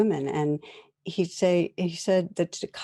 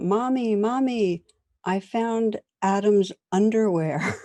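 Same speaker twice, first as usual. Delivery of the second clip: put-on high, excited child calling out to mom; a four-year-old shouting his discovery, pitched high; 5 semitones higher, 3 dB louder than usual. Boy calls to his mother about the leaf, high excited call. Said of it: "and he calls out".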